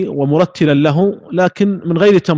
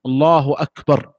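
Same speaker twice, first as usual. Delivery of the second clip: slow الله أكبر, ending on a still r, then a pause; stop after phrase; 3 semitones lower than usual. Shown as a demonstration. Teacher showing the second opinion, pausing after each takbir. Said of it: "يقف على كل جملة".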